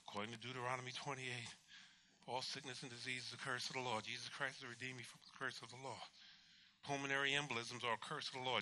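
low, soft, monotone recital; sleep-talking recitation. Retold or imitated. Patient reciting scripture in his sleep, low murmured recitation. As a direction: murmur it as if asleep. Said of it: "I was talking in my sleep".

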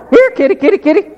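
very high falsetto pet call; mock high-pitched kitty call; calling the cat. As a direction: pipe it way up high to coax a cat. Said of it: "he starts calling the cat".

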